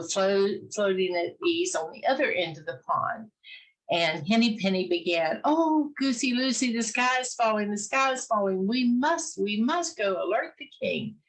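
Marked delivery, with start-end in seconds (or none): 5.4-11.2 higher, urgent plea from a little hen; alarmed hen. Acted. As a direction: warn the goose breathlessly.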